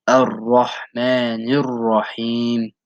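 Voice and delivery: "Ar-Rahmanir Rahim" slowly, with a throaty ha; slow recitation. Shown as a demonstration. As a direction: recite the verse slowly as a model. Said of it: "stress it as if there were two ra's".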